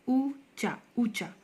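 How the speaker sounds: ऊंचा said as oo-cha, no nasal; wrong, without nasal. Shown as a demonstration. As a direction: drop the nasal from ऊंचा, pure oo vowel. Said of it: "ऊंचा होता है कि ऊंचा होता है".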